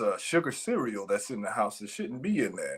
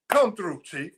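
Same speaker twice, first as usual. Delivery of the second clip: shouted higher and louder; hype shout; 5 semitones higher, 5 dB louder than usual. Real, not acted. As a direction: cheer your friend on.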